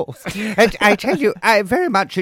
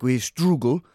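Emery imitation; 3 semitones lower, slower than usual. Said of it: "he was like".

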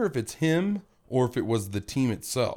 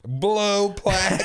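talking through a full mouth; words mushed by a mouthful; 7 semitones higher, 4 dB louder than usual. Real, not acted. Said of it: "My mouth is so full of cheese".

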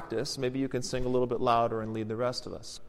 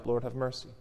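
softer, unobtrusive spoken response; quiet prayer response; 6 dB quieter than usual. Shown as a demonstration. Priest showing how to join in without singing, very quietly. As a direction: say it softly, almost to yourself. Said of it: "You can just say very quietly".

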